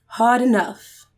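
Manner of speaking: poetry reading. Pretend. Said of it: "Do it in the British accent".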